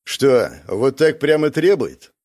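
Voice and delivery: slow, wry doubt; skeptical query. Acted. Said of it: "уточнил мечник".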